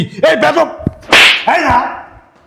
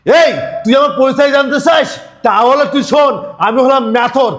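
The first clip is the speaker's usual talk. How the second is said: angry shout; 3 semitones higher than usual. Acted. Angry quarrel, shouting challenge.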